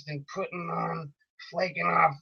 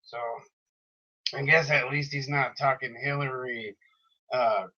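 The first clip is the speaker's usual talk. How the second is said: tough, groggy radio-host voice, lightly done; a hint of Alex Jones-style tough grogginess. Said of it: "do that in a tough, like, kinda, like, groggy voice like his".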